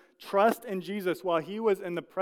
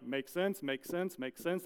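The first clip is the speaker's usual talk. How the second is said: soft, offhand nods down the line; casual checking off; 6 dB quieter than usual. Retold or imitated. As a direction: mildly tick each one off as fine. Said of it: "they're like".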